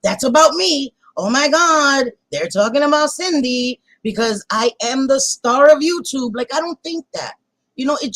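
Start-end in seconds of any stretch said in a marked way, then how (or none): 1.2-6.3 hammed-up self-importance; mock self-important. Mocking someone who thinks she's YouTube's star, self-important. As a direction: play someone convinced it's all about them. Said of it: "thinks that she's more important than she is".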